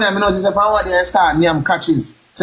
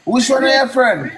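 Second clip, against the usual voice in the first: laughing; 3 semitones higher, slower than usual. Real, not acted. Teasing repeat, laughing.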